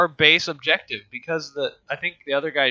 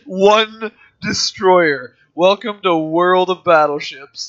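grand, slow British announcement, higher pitched; British accent; 5 semitones higher, 6 dB louder, slower than usual. Acted. Gamer hamming up the game's welcome, British accent. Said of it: "say it in a British accent".

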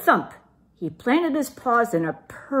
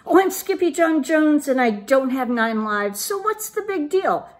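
high, louder cocky kitten voice; bouncy bragging; 7 semitones higher, 4 dB louder than usual. A narrator's reading. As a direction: brag like a bouncing little boy. Bouncing kitten brags to himself.

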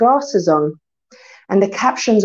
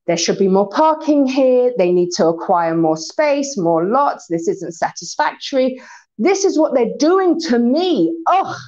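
grumbling; 2 semitones higher than usual. Retold or imitated. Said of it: "his internal dissatisfaction".

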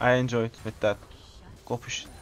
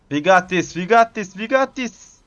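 building from loud to higher each time; rising hype; 4 semitones higher, 5 dB louder than usual. Real, not acted. Cheering the team after the kill, louder and rising. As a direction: pump up the team.

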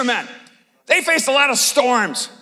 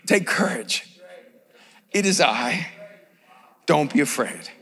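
reassuring Jesus; 11 semitones lower, 6 dB quieter than usual. Retold or imitated. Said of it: "And Jesus says to them immediately".

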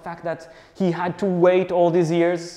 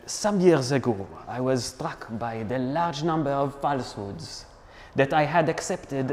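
lightly put-on French accent for a dramatic reading; hint of French accent, theatrical quote; fake French accent; 2 semitones lower than usual. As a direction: read it like a dramatic French philosopher. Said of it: "do it in my fake French accent".

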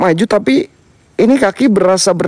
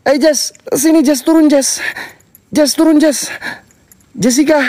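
calling out; 7 semitones higher than usual. Real, not acted. Calling a friend off the roof.

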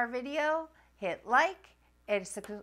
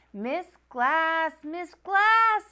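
higher, louder urgent calling; crying out; 7 semitones higher, 7 dB louder, much slower than usual. Acted. Nancy calling to her teacher on the bus, urgent cry. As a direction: call for the teacher in a panic. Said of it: "I cry".

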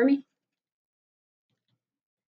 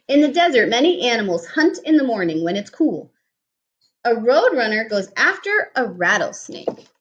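put-on reading to children. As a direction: clear storybook reading voice. Reads picture book aloud.

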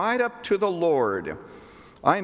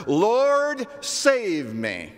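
desperate cry; 9 semitones higher, 3 dB louder, much slower than usual. Acted. Peter sinking cries out.

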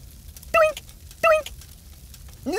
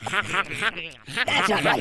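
very slow, low, dragged-out toy voice; 10 semitones lower, 4 dB quieter, much slower than usual. Acted. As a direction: let it warp and sag. Slowed-down toy voice.

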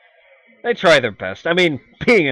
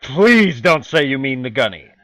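normal talking voice

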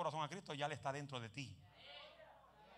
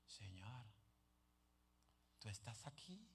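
very soft, lower mock prayer; hushed prayer; 8 semitones lower, 18 dB quieter, slower than usual. The preacher mocks people who pray in a hush. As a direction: whisper it like a pious worshipper.

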